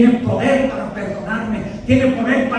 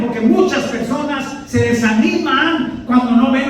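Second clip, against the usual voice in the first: raised, urgent sermon voice that drives the congregation; fervent preaching; 3 semitones higher than usual. Acted. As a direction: urge them on from the pulpit, pitched high. Preaches at full force.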